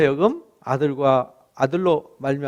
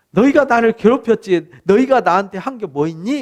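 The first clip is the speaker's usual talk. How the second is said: louder, pressing rebuke; mild reproach; 4 semitones higher, 5 dB louder than usual. Acted. God reproaches his wayward people, mildly indignant. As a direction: confront them with a hurt, emphatic question.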